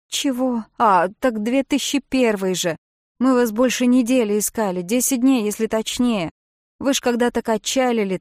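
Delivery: baffled boatman, raising his voice; puzzled rescuer Jim. Acted. (Джим, громко и растерянно)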